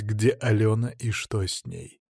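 ordinary delivery, nothing marked

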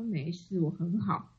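low, soft grudging answer; curt sulky reply. Retold or imitated. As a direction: say it flat-out sulky and quiet. Grumpy self on phone.

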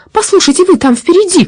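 put-on high, loud old lady's call; shouted call. A narrator's reading. Granny shouting at the robber pedaling ahead. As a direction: call out sharply to the rider in front. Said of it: "крикнула она".

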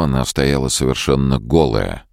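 usual speaking voice

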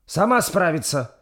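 put-on high old woman's snap; sharp retort. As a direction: cut her off curtly. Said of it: "резко ответила бабка".

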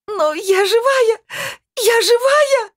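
very high, loud, near-sobbing scream; frantic scream. Acted. Svetlana screaming at the medium that she is alive. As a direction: insist on being alive at the top of your lungs. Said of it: "истошно закричала она и разрыдалась".

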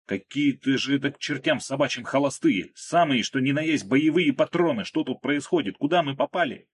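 man under fire, loud alarm; alarmed yelling. A narrator's reading. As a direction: shout in shock at live rounds. Under live fire, panicked.

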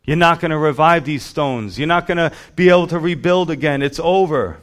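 taunting Satan. Acted.

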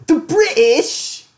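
high, loud, drawn-out mock British; hammed-up British cry; trashy British accent. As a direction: yell it in an exaggerated British accent.

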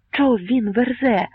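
high, slow, startled exclamation; startled outcry. A narrator's reading. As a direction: blurt it out in disbelief. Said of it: "мимоволі скрикнув Богун". (мимовільний скрик здивування)

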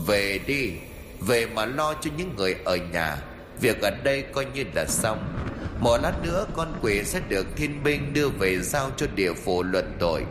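soft, distant voice from above; echoing voice from the sky. Acted. Unseen immortal tells Phi to go home, soft and distant. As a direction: speak as an unseen immortal, hushed. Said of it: "vọng tới giọng nói".

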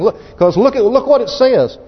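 real excitement, ringing out the verse; excited preaching. Real, not acted. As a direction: proclaim scripture with rising, high-pitched excitement. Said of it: "I tell you, it's exciting".

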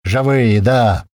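loud quick reply; loud confirmation; shouted answer. Acted. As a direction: shout back over noise.

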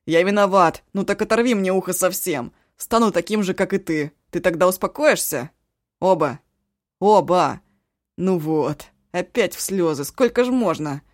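loud pleading yell; yelling plea. Acted. Eshu yells his apology at the crying cook. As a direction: shout your remorse at her. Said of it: "заорал он так".

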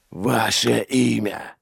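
slow, sharp interrogator's question; sharp demand. A narrator's reading. Inquisitor questioning a prisoner, sharp demand. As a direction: demand it curtly, drawing out the words. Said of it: "резко спросил он".

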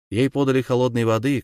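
usual speaking voice

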